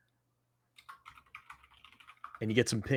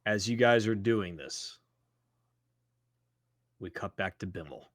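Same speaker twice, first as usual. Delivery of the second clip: game master narration; 4 semitones lower than usual. Acted. Game master sets the scene.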